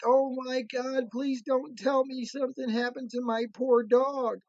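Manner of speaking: high-pitched, pleading dismay; imitated distressed lady. Owner fears her dog was hurt, imitated distress. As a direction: mimic a worried owner begging, voice held high.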